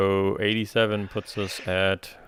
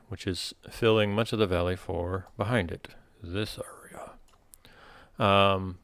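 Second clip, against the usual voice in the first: game master narration. Acted. Game master describes the scene.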